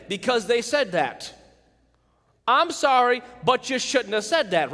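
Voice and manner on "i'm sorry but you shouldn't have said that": fake apology. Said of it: "That's how people apologize".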